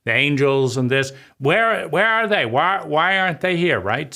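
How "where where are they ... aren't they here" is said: indignant outcry. Retold or imitated. Child's outrage at absent angels.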